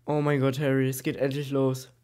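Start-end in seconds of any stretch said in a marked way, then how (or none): none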